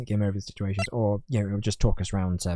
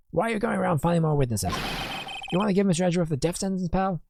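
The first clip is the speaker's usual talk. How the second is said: raised pitch, accusing detective; indignant detective; 10 semitones higher than usual. Acted. Detective berating the lawyer over witnesses, indignant and higher. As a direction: scold them as an exasperated detective.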